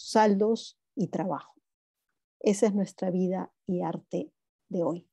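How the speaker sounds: measured literary recital, each line opening firm and falling away; poetry reading. Acted. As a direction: read a poem aloud, phrase by phrase. Reads own poem aloud. (lectura de poesía en voz alta)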